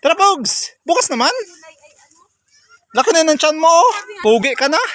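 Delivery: high, sing-song call to the goats; calling animals. Real, not acted. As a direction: coax the goats home, calling out. Calling and teasing the goat. (pagtawag sa mga kambing)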